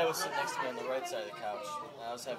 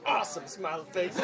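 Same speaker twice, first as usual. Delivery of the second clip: laughing; 11 semitones higher, 17 dB louder, slower than usual. Real, not acted. Reading while laughing.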